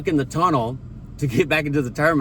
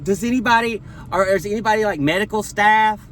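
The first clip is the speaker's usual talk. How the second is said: higher, flustered call to the cabin; panicked flight attendant; 6 semitones higher than usual. Retold or imitated. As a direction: ask for a doctor in a flustered, higher voice. Flight attendants calling for help.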